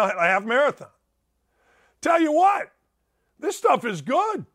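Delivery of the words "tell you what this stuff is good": excited shout. Real, not acted. Sudden enthusiastic outburst.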